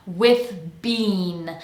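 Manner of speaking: "with bean" with th moving straight into b; quick switch to b. Shown as a demonstration. Coach models th to b, careful linked demo. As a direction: separate "with bean" carefully, crisp b onset. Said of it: "quickly I switch over to b".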